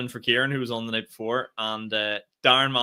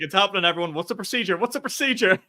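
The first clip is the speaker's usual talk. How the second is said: hammed-up Office panic, getting more frantic; panicky excitement; 6 semitones higher than usual. Quoting The Office scene to his co-host, mock excited panic. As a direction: voice climbing higher with each "procedure", mock panic. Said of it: "You know that scene in The Office".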